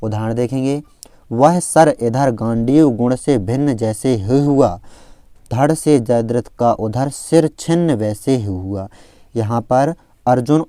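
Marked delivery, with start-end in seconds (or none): 1.3-8.9 slow, measured reading of verse; verse recitation. Shown as a demonstration. Teacher reciting an example verse to students, measured recitation. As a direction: recite it slowly, stretching the phrases.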